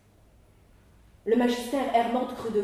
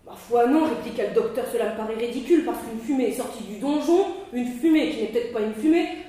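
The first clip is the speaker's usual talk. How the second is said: tags 1; 2 semitones higher, 6 dB louder than usual. Acted. Doctor blusters refusing.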